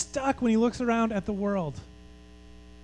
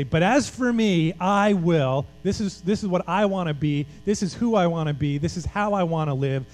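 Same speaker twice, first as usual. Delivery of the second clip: firm resolve. Acted. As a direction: plant your foot and declare it. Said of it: "put your foot in the ground".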